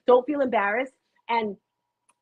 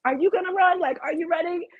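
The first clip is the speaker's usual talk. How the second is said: higher-pitched, challenging questions; retold exasperation; 8 semitones higher than usual. Runner retorting to someone giving advice, mock exasperated. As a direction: throw it back as a mock-irritated retort. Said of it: "it kills me when people aren't doing".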